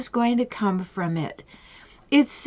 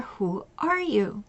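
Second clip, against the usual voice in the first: quieter, unhurried, gentle probing; soft slow question; 6 dB quieter than usual. Retold or imitated. Coach to client, softer and slow. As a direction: ask it softly so she listens.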